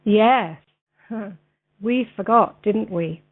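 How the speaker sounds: slow, deliberate read-aloud with long pauses; slow, clear reading. Real, not acted. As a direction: read very clearly for a video, phrase by phrase. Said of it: "read it a little bit slower".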